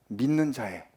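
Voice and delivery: normal talking voice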